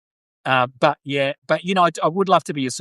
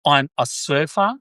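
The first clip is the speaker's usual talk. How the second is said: put-on Californian surfer accent. Australian practising to sound like a surfer, attempted Californian accent. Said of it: "I wanna sound like".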